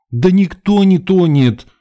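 high, loud, drawn-out protest; exasperated melodramatic lady; indignant. A narrator's reading. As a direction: wail it in theatrical outrage. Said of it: "возмутилась свидетельница".

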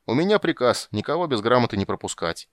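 loud, stubborn guard; insistent soldier. Acted. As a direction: insist on the order firmly. Soldier insists on his order.

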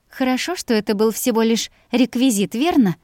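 mocking his own words back; teasing mimicry. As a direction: tease him by parroting his line. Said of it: "Передразнила его сказанную на прошлых съёмках фразу".

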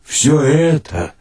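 ordinary delivery

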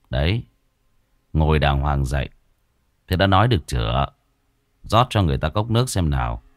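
calm her down kindly; softened voice. Acted. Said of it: "rồi dịu giọng".

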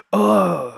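high sudden cry; cry of pain. A narrator's reading. Captain crying out when hammer falls on foot. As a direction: yelp as the hammer lands.

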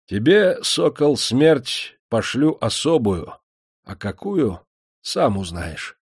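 high then slow, menacing verdict; ominous sentence. A narrator's reading. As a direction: savour the threat. Master pronounces sentence.

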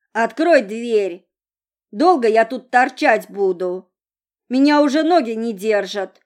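put-on a drunk girl banging on the car window; drunk woman voice. A narrator's reading. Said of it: "сказала она пьяным голосом".

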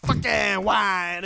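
put-on a drunk woman yelling before hurling the wine; angry yell. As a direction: spit out each word at him. Drunk date throwing the wine.

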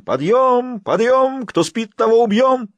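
wild high bugle yell; wild high shrieking wake-up call; long goal yell. A narrator's reading. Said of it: "заорала диким голосом".

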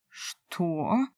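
usual speaking voice

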